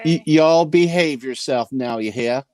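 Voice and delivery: mock Southern farewell to the guests; southern accent. Says goodbye to the guests in a put-on Southern accent. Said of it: "Did I sound southern?".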